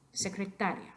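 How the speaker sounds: secretaria with the stress on "ta"; penultimate stress. Shown as a demonstration. Teacher confirms the rule, secretaria stressed on "ta". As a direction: put the weight on "ta" in secretaria. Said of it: "La penúltima sílaba".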